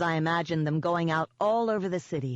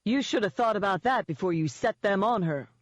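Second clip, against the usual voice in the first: higher, lightly scolding; mildly gloating; 4 semitones higher than usual. Acted. Eden scolding Denon on the phone, mildly gloating. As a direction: rub it in with a touch of relish.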